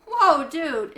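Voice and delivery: taken aback by the outburst; surprised. A narrator's reading. Israel startled by the yell.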